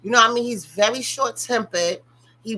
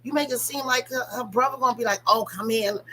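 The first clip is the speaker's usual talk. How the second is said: higher, sarcastic retort, pitched up; mocking retort; 6 semitones higher than usual. Everybody mocks the father's excuse about the brother, high and sarcastic. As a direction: throw his excuse back at him, mockingly.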